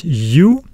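eu said as "yu", U; U pronounced like English "you"; alternative diphthong pronunciation. Shown as a demonstration. Teacher showing learners how some pronounce the diphthong, as "yu" U. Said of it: "Some pronounce them as U".

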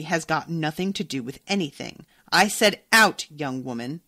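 mildly scornful dismissal. Acted. Shopkeeper orders the young customer out, scornful. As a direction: dismiss them with a touch of scorn. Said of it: "Mister Piper said scornfully".

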